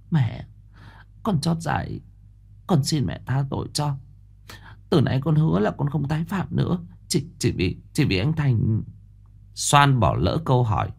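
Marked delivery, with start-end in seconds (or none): 0.1-8.8 soft, higher, meek voice; feigned innocence. A narrator's reading. Mẫn pretending innocence to Bà Lai, meek and soft. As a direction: play the guileless child. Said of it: "nhưng vẫn tỏ vẻ ngây thơ".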